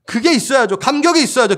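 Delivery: normal talking voice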